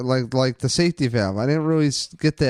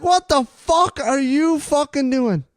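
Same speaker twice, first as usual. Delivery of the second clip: much higher, slower exaggerated yell; mock furious parent; 12 semitones higher than usual. Relatives in the stands screaming at the team, hammed-up fury. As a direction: stretch out the outrage like a fed-up parent. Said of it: "You know, like".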